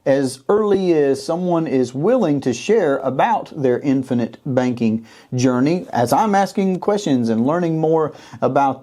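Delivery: measured interview-show host intro. Acted. Host welcoming viewers to the channel, show intro.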